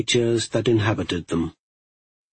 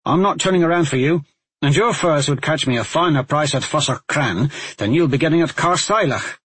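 sharp warning; 4 semitones higher than usual. Acted. Talmadge warns Badger.

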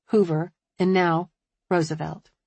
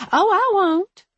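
very high, louder assurance; eager promise; 13 semitones higher, 6 dB louder, slower than usual. A narrator's reading. Hairdresser promising to keep a secret, eager. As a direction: swoop up in earnest reassurance.

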